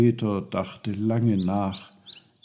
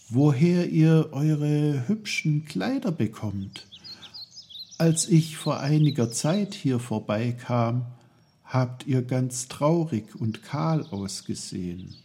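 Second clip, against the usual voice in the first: put-on lightly raised, curious boy's voice; a hint of a higher, friendly boy; young Peter, eager; 5 semitones higher than usual. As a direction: ask it politely like a boy talking to trees.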